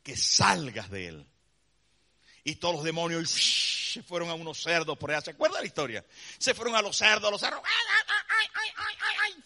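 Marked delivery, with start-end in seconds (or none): 0.0-1.3 much lower, slow command; Jesus commanding. Acted. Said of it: "Jesús le dijo". 7.6-9.4 very high pig squeals; squealing pigs. Acted.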